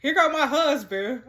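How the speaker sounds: exclaimed with a lift and a push on "go"; mock exclaiming. Real, not acted. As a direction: announce the husband's arrival, half-laughing. Husband texts, exclaimed first.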